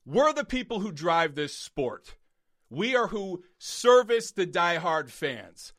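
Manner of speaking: loud, slow, heated scolding; angry rant. Real, not acted. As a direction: scold them, stabbing key words. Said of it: "That's it for that rant".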